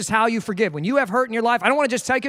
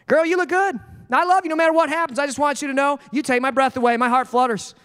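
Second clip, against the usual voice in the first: romantic husband; 5 semitones higher than usual. Retold or imitated. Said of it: "try a little tenderness".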